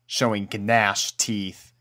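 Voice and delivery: plain reading voice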